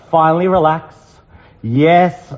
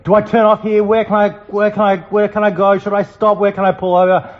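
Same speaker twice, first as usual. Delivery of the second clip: higher, fast, flustered half-acted panic; comic retold panic at the wheel, pitched up and rushed; mock panic; 4 semitones higher, faster than usual. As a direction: rattle it off like a lost driver in mock alarm. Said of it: "There's panic stations".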